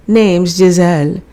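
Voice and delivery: a light hint of a French accent; lightly French, as if it might be fake; faint French accent. Poodle introducing herself to Ben, in a faint French accent. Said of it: "with a faint French accent".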